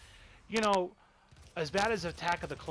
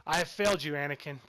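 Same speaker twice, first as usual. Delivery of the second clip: louder, anguished echo of Obi-Wan's cry; imitating Obi-Wan's anguish; 5 dB louder than usual. Reviewer imitating Obi-Wan's cry to Anakin, louder and anguished. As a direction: lean into the heartbreak of the line. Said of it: "the amazingly delivered line by Ewan McGregor".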